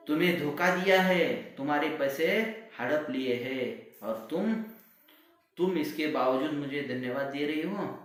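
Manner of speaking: high, very loud furious yell; furious shout. Acted. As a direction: explode at her. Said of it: "गुस्सा आया".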